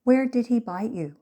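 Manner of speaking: mother taking firm charge; with authority. A narrator's reading. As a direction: take charge and demand it. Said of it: "with a degree of authority".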